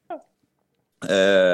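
eagle noise. Real, not acted. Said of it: "Did you just do an eagle noise there?".

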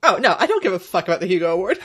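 fast, laughing dismissal. Real, not acted. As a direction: laugh through the line. Laughing while answering.

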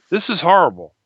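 retold daughter's deadpan grumble; straight-faced complaint. Daughter to dad after walking the dog, straight-faced. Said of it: "she looks at me straight face".

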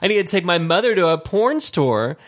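high-pitched retold bafflement; retold disbelief. Man retelling his confusion at coworker's advice, puzzled. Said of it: "that's what I said".

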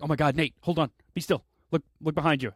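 hammed-up urgent warning; mock alarm. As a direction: warn a friend of danger, playfully. Acts out friend alarmed behind him.

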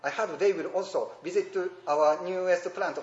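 slow, loud, each syllable separate; "I heard they will also visit our newest plant" read slowly and loudly, syllable by syllable. Retold or imitated. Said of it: "みたいになっちゃうんですよ".

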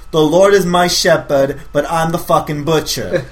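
feeding the actor his line, slow and steady; reading the line out. Pretend. Director feeding the actor his line, a slow read. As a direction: lay the line out slowly so he can copy it. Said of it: "your line is".

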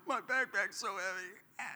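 put-on slow, soft, whining little boy; mock the crying kid's complaint; a hint of a tearful child; whiny kid. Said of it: "this little kid was crying".

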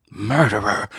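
grieving son shrieks at the man he blames; shrill yell. A narrator's reading. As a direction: shriek it at the killer. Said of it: "Gardner shrilled".

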